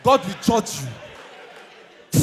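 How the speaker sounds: very slow laughing repeat; mocking the judge's curse, slow and laughing; drawn-out laughing curse. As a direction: stretch it out, laughing and shouting. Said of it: "they say".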